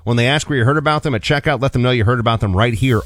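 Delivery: upbeat sponsor read by the host. Real, not acted. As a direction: sell the product with lifted emphasis.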